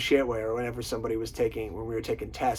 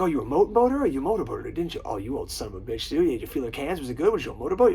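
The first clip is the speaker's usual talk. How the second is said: lightly imitated rapid teasing banter; Vince Vaughn; 3 semitones higher, 4 dB louder than usual. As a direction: pepper the questions, lifting the pitch at both ends. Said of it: "he plays such a good fucking hothead".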